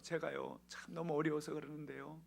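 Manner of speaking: mildly acted crying plea; a touch of tearful begging, hushed; tearful request. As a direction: ask for help as if weeping, softly. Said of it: "부탁을 하는데 막 울면서".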